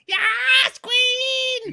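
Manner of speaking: very high hype-man shout; Toad voice. Acted. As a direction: cheer her on as a tiny hype man. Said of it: "if we're gonna voice Toad".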